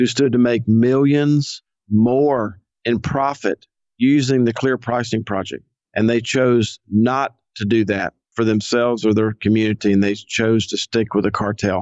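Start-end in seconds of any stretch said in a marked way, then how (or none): 0.0-5.6 very slow, deliberate, clear enunciation with emphasis. Speaker making a point in a discussion, very slowly and clearly. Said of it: "I want to say this very slowly and clearly".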